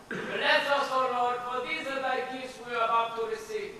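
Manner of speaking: lightly intoned table prayer with a sly turn at the end; saying grace. Acted. Grandfather saying grace over dinner, mock-solemn prayer. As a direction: pray over the dinner, half-solemn, half-teasing.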